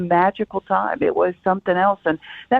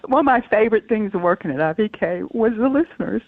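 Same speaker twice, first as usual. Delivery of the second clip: crying on the phone. Real, not acted. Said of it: "I'm sorry we made you cry".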